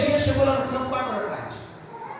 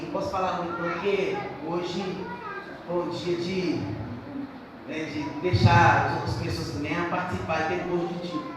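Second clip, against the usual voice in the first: dropped, much softer side remark; quiet aside; 9 semitones lower, 8 dB quieter than usual. Real, not acted. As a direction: drop to a confiding murmur. Quiet aside about football. (comentário em voz baixa, à parte)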